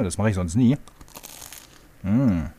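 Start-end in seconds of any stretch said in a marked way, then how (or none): 2.0-2.5 chewing with mouth full; munching on bread roll; chewing sound. Real, not acted. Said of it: "das klingt nach Brötchen".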